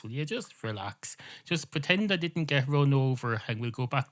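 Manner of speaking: fed up with being questioned; worked-up comic scolding; exasperated rant. Acted. Cat snaps at the other's questions.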